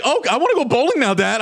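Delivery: put-on high, whining kid complaining; whiny kid voice. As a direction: whine it like a bored child. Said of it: "They're like".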